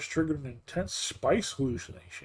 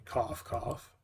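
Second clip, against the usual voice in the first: fake cough; 8 dB quieter than usual. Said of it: "spice stuck in my throat".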